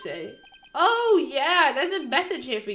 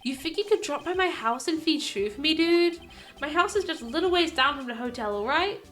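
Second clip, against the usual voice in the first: Matt Engarde voice. Acted. Actor writing to his lawyer, lightly voiced and laid-back. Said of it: "I gotta do my Matt Engarde voice".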